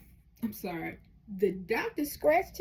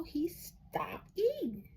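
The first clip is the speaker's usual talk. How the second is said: hushed confession; 6 semitones higher, 5 dB quieter, much slower than usual. Retold or imitated. Boy tells doctor quietly.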